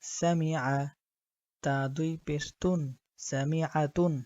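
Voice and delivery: measured, even-toned Quranic spelling drill; spelling-drill recitation. Shown as a demonstration. Teacher spelling Arabic words for learners, measured recitation. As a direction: spell out each letter and vowel, then join them steadily.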